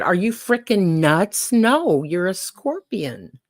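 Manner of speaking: mild mock disbelief, drawn out; lightly acted frog balking at the idea; slow, stressed storytelling disbelief; incredulous refusal.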